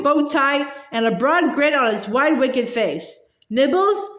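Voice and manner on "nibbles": higher, sweet questioning offer; sweetly. A narrator's reading. Peeves offers Harry's group a snack, sweetly. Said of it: "he said sweetly".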